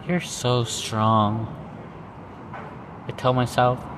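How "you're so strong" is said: slow self-affirmation. Shown as a demonstration.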